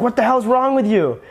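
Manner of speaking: hammed-up disbelieving father scolding his son; imitating angry dad. Dad scolding in retold story.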